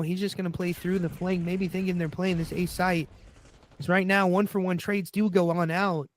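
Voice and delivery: steady live play-by-play call; esports caster. Acted.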